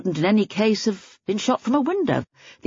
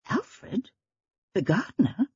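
high, startled question; surprised; 4 semitones higher, 4 dB quieter, slower than usual. A narrator's reading. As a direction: ask it in disbelief. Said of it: "Joan spoke in a surprised voice".

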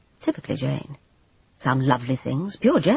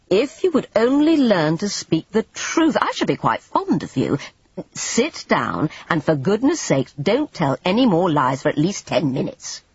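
exasperated Everard; 4 semitones higher than usual. Acted. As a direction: scold her with weary fondness.

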